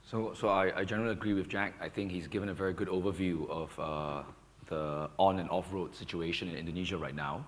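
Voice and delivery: rough, worn-out hoarse voice. Real, not acted. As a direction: speak through a sore, hoarse throat. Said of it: "Apologies for my coarse, hoarse voice".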